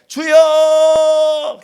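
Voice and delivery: very loud, high, long-held prayer cry; crying out "Lord!". Retold or imitated. Preacher alone before God, desperate loud cry of prayer. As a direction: cry it out to God, drawn right out. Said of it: "그래서 혼자서 주님 앞에".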